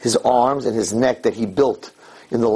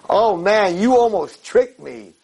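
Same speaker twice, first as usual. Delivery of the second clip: gleeful relief; 8 semitones higher, 4 dB louder, slower than usual. Acted. Relieved man answers Satan.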